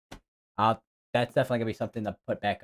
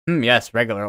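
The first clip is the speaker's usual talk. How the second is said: mock posh British "hmm, yes"; lightly put-on British tone; a hint of an upper-class Brit; British accent; 4 dB louder than usual. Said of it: "the two accents that I regular are".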